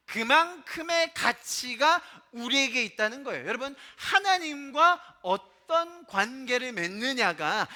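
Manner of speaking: forceful preaching, stretching the key words; emphatic preaching. Real, not acted. Preacher tells congregation of their worth, emphatic preaching. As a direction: drive the point home to a congregation.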